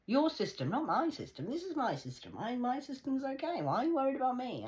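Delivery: high, loud, fast indignant tirade; heated rant. Real, not acted. Hitting back at the people she blames, angry and loud. Ranting at the enemy.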